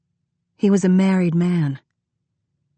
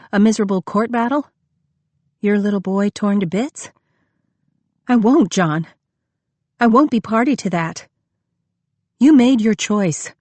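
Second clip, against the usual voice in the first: higher, louder, rising anger; Lucy rejecting John, higher and louder; upset outburst; 4 semitones higher, 5 dB louder than usual. A narrator's reading. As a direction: refuse him with a breaking voice.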